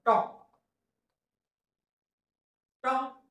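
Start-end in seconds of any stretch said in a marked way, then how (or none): 2.8-3.2 stretched out and softer; slow phonics blend. Shown as a demonstration. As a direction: draw the word out slowly. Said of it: "त्याला ऑ जोडून घेतला".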